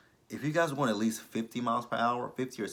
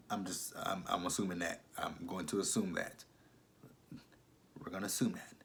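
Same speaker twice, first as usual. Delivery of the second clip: much softer, lower murmur; subdued aside; 3 semitones lower, 9 dB quieter than usual. Real, not acted. Recapper settling on her own grim assumption, subdued. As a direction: drop to a quiet, low mutter.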